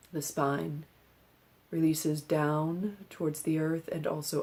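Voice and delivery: calm, measured meditation instruction with long pauses; unhurried meditation-teacher delivery; guided meditation. Acted. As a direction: guide them gently into stillness, leaving space between phrases. Leads a seated breathing meditation.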